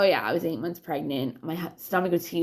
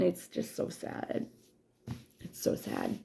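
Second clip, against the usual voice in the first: sad whisper; 9 dB quieter, slower than usual. Real, not acted. Hurt over her friend.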